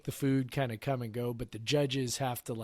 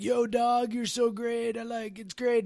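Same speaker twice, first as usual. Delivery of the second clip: imitating Jackson; 10 semitones higher, slower than usual. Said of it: "his job was to be like".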